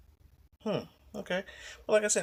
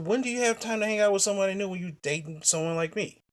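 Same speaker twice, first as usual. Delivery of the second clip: indignant rant; 4 semitones higher, 3 dB louder than usual. Real, not acted.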